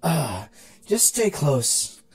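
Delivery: slow, tired sigh of a line; exasperated. Acted. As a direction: give in with a weary breath.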